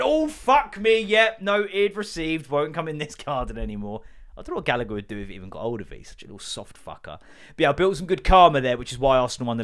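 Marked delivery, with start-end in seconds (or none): 0.0-4.0 high startled cat, fading down. Retold or imitated. Neighbour's cat fleeing the dog, high startled voice. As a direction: play the cat backing off.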